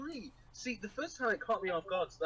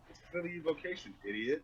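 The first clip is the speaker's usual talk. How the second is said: snarky. Retold or imitated. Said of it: "and just goes".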